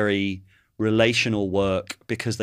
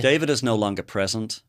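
put-on Californian accent. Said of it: "It can only be done in a Californian accent".

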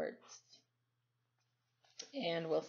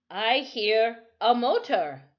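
tense; 4 semitones higher, 8 dB louder, slower than usual. Acted. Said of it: "Timothy said tensely".

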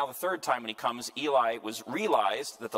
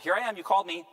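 higher, louder eager reply; eager boy answering; 8 semitones higher, 6 dB louder than usual. Acted. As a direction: answer the call like a keen young servant. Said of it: "went to Eli and said".

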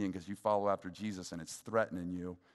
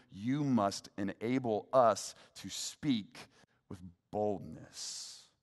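fervent prayer. Retold or imitated. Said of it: "they go to God and they go".

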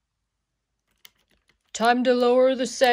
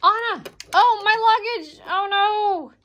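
dismayed cry; 8 semitones higher, 5 dB louder than usual. Pretend. Character loses luggage, cries out.

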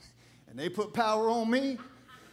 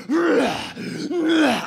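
loud, raised mock roar; imitated growling roar; 6 semitones higher, 9 dB louder than usual. Preacher imitates opponent coming down the aisle, loud roar. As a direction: roar like a man possessed. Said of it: "he's going".

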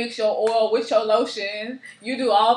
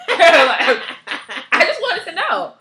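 laughing through the words; giggling while explaining herself; high laughing protest; 8 semitones higher, 10 dB louder, much slower than usual. Real, not acted.

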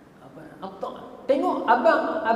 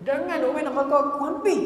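raised-pitch retold warning; acted alarmed refusal; urgent rebuff; 3 semitones higher than usual. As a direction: push them away with a rising voice. Scholar rebuffs the temptress.

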